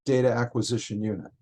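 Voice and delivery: measured, separated words for a listener. Real, not acted. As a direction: spell out the name slowly. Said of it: "Say the name slower".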